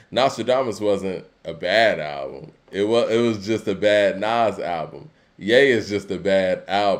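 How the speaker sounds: normal talking voice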